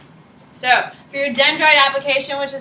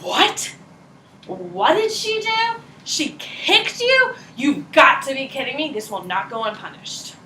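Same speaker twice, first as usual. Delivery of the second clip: mock outrage; slower than usual. Teacher voices outraged brain cells for the class, mock disbelief. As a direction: play the shocked brain cells hamming it up. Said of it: "they're like".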